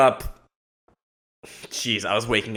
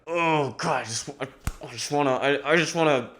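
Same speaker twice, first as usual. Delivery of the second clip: higher, held-back voice of mounting frustration; acted pent-up aggression; 4 semitones higher, 4 dB quieter than usual. Vlogger acting out waking up aggressive, straining with frustration. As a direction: act as if straining to contain aggression.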